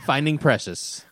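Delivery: slow, lightly voiced movie title; mock trailer announcer.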